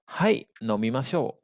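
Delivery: slow, spaced-out language-lesson delivery; slow model answer. Shown as a demonstration. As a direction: model the reply slowly for learners. Teacher models answer slowly first. (ucapkan jawaban perlahan untuk murid)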